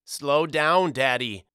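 high, loud call for his father to slow down; cried out. A narrator's reading. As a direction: shout it up and loud over the rattling wagon. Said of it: "he cried out".

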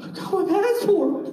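excited. Retold or imitated. Shouting news of passport to wife.

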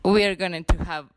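lightly voiced rapper's line; rapper impression. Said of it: "No sé cómo dicen eso".

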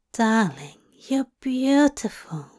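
tender whispered endearment; sweet nothings. Acted. Aziraphale's tender praise.

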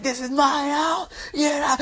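high, strained imitation of a screaming mom; mock screaming. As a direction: fake primal mom rage without full volume. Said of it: "she just starts screaming".

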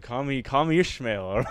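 slow, hammed-up literary quote; mock grand line. Storyteller joking about his answer to the man. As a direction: declaim it like a joke reference.

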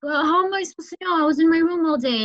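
put-on a touch of a teen's frustrated comeback; frustrated son retold. Retelling the student's reply to his dad, mildly frustrated. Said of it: "I could just sense some frustration".

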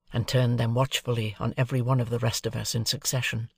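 ordinary delivery, nothing marked

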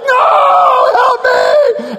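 very high, loud cry for help; hammed-up drawn-out panic shriek; panicked screaming. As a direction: scream in mock terror. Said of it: "he's screaming the whole".

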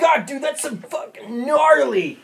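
high, loud, slow surfer-style bro; radical idiot. Acted. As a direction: shout it as a stoked radical dude. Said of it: "I speak fluent in radical idiot".

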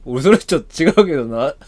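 mock co-host catchphrase. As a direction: play up the habitual objection. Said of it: "の人やもん".

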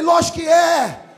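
loud, high, stretched-out yell; re-enacted hollered assurance; emphatic shout. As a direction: bellow the obvious answer. Acting loud emphatic reply.

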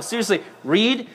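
ordinary talk

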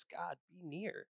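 soft slow prayer to God; hushed prayer. Retold or imitated. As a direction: pray it gently, barely aloud. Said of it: "he just prays".

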